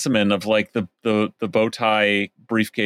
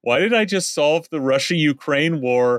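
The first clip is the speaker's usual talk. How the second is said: lightly voiced goofy nerd; dopey poli-sci guy; 4 semitones higher than usual. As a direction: read it like a smug dopey student. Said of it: "dopey smile saying".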